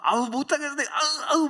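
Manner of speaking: high, loud mock whining of a gym member; coy gym girl pleading with her trainer, hammed up; whiny nasal groaning.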